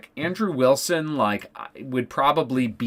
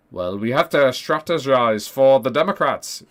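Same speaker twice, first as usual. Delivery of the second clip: light mock Scottish accent; lightly put-on Scottish lilt; Scottish accent impression. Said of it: "in his Scottish accent".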